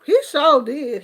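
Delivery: ordinary talk, nothing marked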